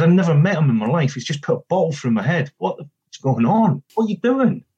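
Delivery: a mock-incredulous plea rising to a high final question; retold outrage. Retold outraged plea after bottle attack.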